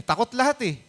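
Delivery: "takot lahat eh" lifted high, with "lahat" pushed up; emphatic. Acted. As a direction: raise "lahat" high to drive home the fear. Preacher stresses everyone's fear. (mataas at mariing "takot lahat eh")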